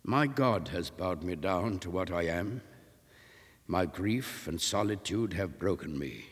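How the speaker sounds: put-on subdued sorrowful old sailor; broken grief. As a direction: speak as a broken man. Enoch's broken confession.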